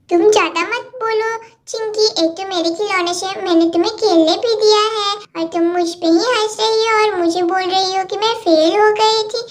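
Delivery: lightly voiced bickering kids, getting cross; squabbling little girls. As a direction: play two little girls fighting over a toy set. Cartoon kids quarrel over toys.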